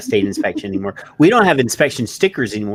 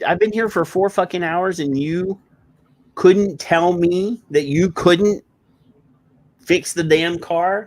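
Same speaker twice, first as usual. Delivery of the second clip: higher, slow and drawn out, every word leaned on; emphatic retelling; 8 semitones higher, slower than usual. Retold or imitated. To the mechanic after four hours waiting, slow emphatic anger. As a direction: spell out the outrage word by word. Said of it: "I'm giving it an emphasis".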